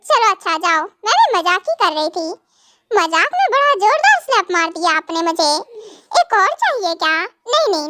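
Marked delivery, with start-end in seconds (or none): 2.9-5.5 laughing. Real, not acted. Laughing about a hard slap. 6.2-7.1 a laugh breaking into the question; laughing through words. Real, not acted. Wife teasing the joker about another slap, laughing. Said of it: "बहुत हंसी आ रही है ना तुम्हें?".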